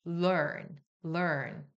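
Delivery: learn의 어에 R을 붙여 굴리듯; learn을 혀 말린 어 소리로; R-colored er. Shown as a demonstration. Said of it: "이런 식으로 어인데". (R 붙은 어 발음 시범)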